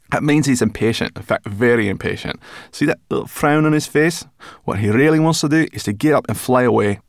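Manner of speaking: high, loud chirpy brownie; high brownie voice, talking with her mouth full. Acted. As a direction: pitch her up into a bright little creature. Sorrel voiced.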